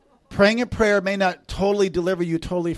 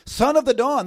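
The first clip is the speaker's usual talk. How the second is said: grieving lamentation; 8 semitones higher, 4 dB louder than usual. Acted. Prophet taking up a lament over fallen Lucifer, grieving. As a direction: cry out each line with mournful weight. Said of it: "It's a grieving lamentation".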